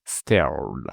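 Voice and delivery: "Stared" with the closing D sounded, pitch falling; audible final D. Shown as a demonstration. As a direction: finish "Stared" on a clear D after the R. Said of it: "le D aussi est important".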